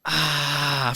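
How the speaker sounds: drawn-out sigh of pain; imitated pained sigh. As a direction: sigh it out like a hurt cartoon dad. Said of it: "he just sits there and goes".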